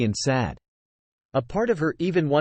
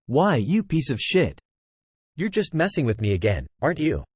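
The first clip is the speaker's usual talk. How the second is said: shaking angry shout. Acted. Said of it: "she shouted angrily, but her voice of shaking".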